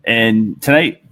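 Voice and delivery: usual speaking voice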